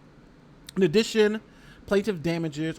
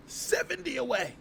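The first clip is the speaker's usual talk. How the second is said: higher, slow, sing-song seventy away; hopeful plea to viewers, higher sing-song; playful sing-song; 9 semitones higher than usual. Real, not acted. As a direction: croon it teasingly to the chat. Begging for subscribers.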